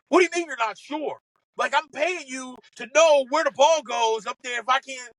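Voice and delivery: mock indignant snap at the caddie; snapping golfer. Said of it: "he's snapping at me".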